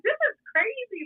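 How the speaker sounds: drawn-out disbelieving; disbelief. Retold or imitated. Friends kissing after fight.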